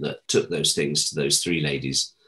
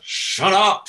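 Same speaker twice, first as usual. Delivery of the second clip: mock hush; 13 semitones higher, 4 dB louder than usual. Jason stopping him again.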